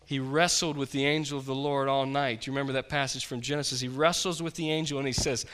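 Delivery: ordinary talk, nothing marked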